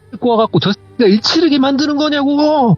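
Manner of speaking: very high strained shriek, imitated; mock screaming tirade climbing to a squeal; retold screaming. Aunt cursing the gods, retold screaming. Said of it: "그러면서 막 소리를 지르시는데".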